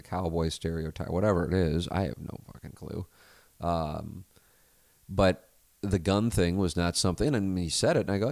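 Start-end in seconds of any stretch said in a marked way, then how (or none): 1.9-3.1 under-the-breath whispered swear; whispered aside. Real, not acted. Muttered aside, unvoiced.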